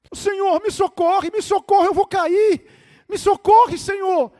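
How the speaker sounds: high, loud panicked begging; acted desperate holler; frantic pleading. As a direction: yell for rescue as your grip gives way. Falling man begs God for rescue.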